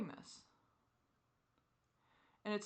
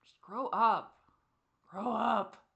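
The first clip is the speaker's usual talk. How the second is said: scolding; 3 semitones higher, 7 dB louder, much slower than usual. Real, not acted. Scolding themself after childish outburst.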